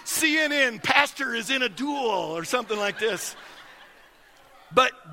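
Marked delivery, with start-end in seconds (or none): 0.0-2.4 mock news headline. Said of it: "I'm fixing to be reported".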